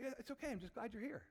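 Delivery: tag. Acted. Father gently reassures the child.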